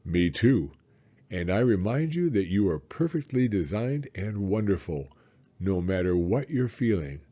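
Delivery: a hint of a tender dad; lightly voiced father. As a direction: reassure him as a loving father. Father voice reading dad's lines.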